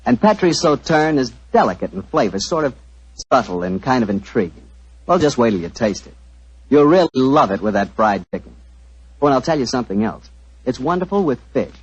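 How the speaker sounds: friendly radio ad pitch; cozy old-time sponsor spot; commercial read. Acted. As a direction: sell the wine to the folks at home.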